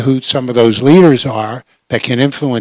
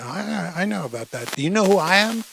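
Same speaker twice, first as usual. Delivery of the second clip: calm reply; 6 semitones higher, 5 dB quieter than usual. Retold or imitated. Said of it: "very calmly and said".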